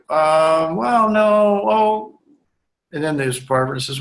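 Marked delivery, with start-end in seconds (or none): 0.1-2.2 caught off guard. Retold or imitated. Client caught off guard in session.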